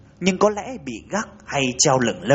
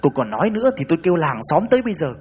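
shouting; 4 semitones higher, much faster than usual. Acted. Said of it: "Bà hai la lên".

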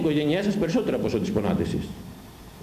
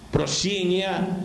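ordinary talk

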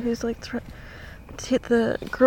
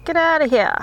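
louder, higher "Get out of here", falling at the end; louder outburst of disbelief; 5 semitones higher, 6 dB louder, faster than usual. Real, not acted. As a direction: throw it out in loud disbelief. Reacting to a news post.

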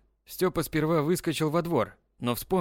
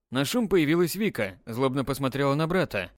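usual speaking voice

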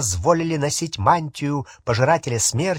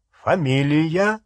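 growling; 4 semitones higher, slower than usual. Acted. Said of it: "прорычал Фенрир".

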